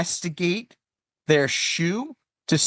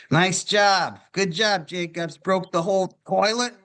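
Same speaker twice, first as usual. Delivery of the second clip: mock praise; 5 semitones higher, slower than usual. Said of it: "everyone's gonna be like".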